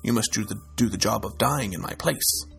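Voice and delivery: steady storyteller voice reading a folktale; story narration. A narrator's reading. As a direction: tell it like a fireside folktale. Reads folktale to listeners.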